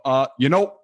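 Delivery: a hint of Obama, halting start; Obama opener. Shown as a demonstration. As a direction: warm up into Obama with it. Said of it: "Even by Obama, I always go".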